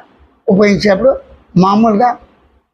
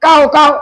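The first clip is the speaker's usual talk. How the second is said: crow caw; 2 semitones higher than usual. Shown as a demonstration. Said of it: "పక్షి శబ్దాలు".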